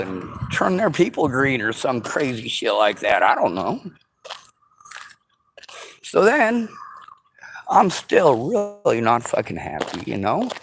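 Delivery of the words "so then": whisper. Real, not acted. Brief aside.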